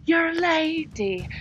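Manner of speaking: mock-proper lecturing lilt; mock-prim propriety. Prim scold telling a lady to look poised, mocking. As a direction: parody a prim Victorian scold. Mocks old rules for ladies.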